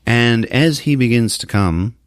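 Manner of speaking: very slow, deliberate reveal; suspenseful slow narration; dramatic storytelling. Real, not acted. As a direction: draw out each word to build suspense. Teller builds dramatic reveal.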